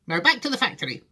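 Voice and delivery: high, eager call; rally everyone with a high cry; excited cry. A narrator's reading. Wonka clapping hands to set off, excited cry. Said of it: "he cried".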